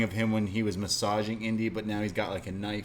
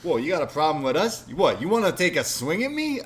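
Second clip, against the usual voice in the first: louder, higher tough-guy taunt; imitating Chase Parker; 5 semitones higher, 6 dB louder than usual. Mocking a wrestler's catchphrase to co-host, loud tough-guy taunt. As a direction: puff up and dare him to swing. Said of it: "Chase Parker who says this all the time".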